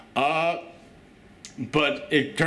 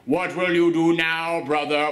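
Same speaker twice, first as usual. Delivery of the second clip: Maximus; 3 semitones higher than usual. Retold or imitated. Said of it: "that's how he talks".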